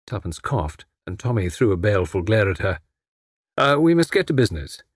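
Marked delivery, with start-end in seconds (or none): 3.6-4.8 quick, clipped business tone; brisk and businesslike. Acted. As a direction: get straight down to business. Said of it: "he said briskly".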